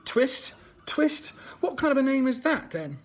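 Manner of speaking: put-on older boy jeering at the new apprentice; taunting sneer. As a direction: sneer the name at him like a bully. Noah taunting Oliver at supper.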